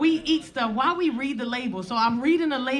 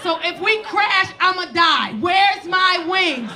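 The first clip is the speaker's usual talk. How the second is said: high, loud panicked wail with drawn-out words; retold screaming; 8 semitones higher, 5 dB louder than usual. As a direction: act out a high-pitched screaming meltdown. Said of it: "stood up and started screaming".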